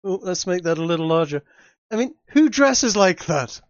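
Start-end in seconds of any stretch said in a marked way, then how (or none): 1.9-3.6 amused disbelief. Real, not acted. Mocking the outfit, laughing.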